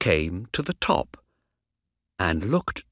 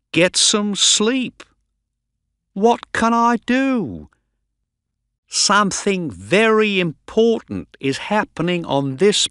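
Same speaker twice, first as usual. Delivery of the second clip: high, loud, indignant complaint; exasperated rant; 6 semitones higher, 4 dB louder than usual. A narrator's reading. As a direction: protest with mounting frustration, voice pushed up. Doctor rants that he is ignored.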